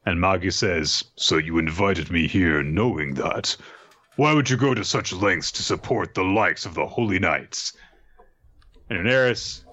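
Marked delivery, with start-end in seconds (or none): 1.2-7.7 grave questioning. Acted. Acted grave questioning of rival.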